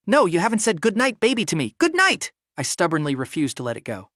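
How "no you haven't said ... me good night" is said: put-on higher, louder drunken wheedling; drunken whine. A narrator's reading. Drunk man pestering his boss for goodnight, higher whine.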